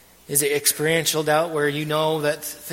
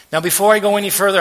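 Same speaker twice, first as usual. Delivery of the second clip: emphatic call to attention; 5 semitones higher, 9 dB louder, faster than usual. Real, not acted. Preacher grabbing the room's attention.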